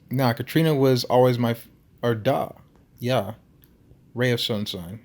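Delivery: put-on amateur Russian accent; Nikolai. Huge Russian remembering the missing girl, Russian accent. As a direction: reminisce as a Russian-accented old guy. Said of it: "his Russian accent thick enough".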